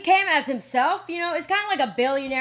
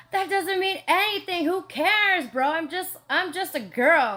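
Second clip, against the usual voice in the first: brushing it off; 5 semitones higher than usual. Retold or imitated. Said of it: "I'm like".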